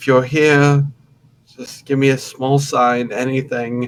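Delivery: tearful, crying, hushed under the breath. Voicing a character kneeling in a corner, praying: crying while praying in character. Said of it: "I'm mostly crying, but I'm, I'm silently praying".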